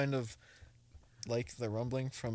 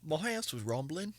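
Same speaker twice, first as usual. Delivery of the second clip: high, slow put-on British accent; slow, hammy British accent; mock British accent; 5 semitones higher than usual. Trying a British accent again for friends, mock accent. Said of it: "Let's see my British accent".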